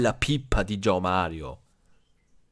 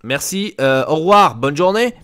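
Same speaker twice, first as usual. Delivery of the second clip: other club's brush-off, imitated; 4 semitones higher, 8 dB louder than usual. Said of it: "elle va dire".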